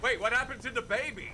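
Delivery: surprised. Real, not acted. Baby suddenly gone from cradle.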